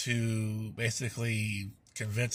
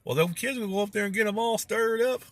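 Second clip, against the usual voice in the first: put-on grumpy old man voice; 11 semitones higher, 4 dB louder than usual. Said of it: "He goes".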